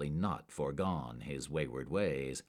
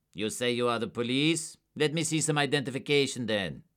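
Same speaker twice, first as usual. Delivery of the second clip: higher, louder sneer; contemptuous; 7 semitones higher, 6 dB louder than usual. A narrator's reading. Suspect sneering at two agents, contemptuous. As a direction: let the scorn leak through. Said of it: "barely disguised his contempt".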